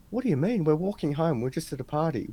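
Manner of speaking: high-pitched start, settling as the explanation goes; mildly incredulous, imitating a protest; retold indignant protest. Girl answers cops about walking home, retold indignant protest.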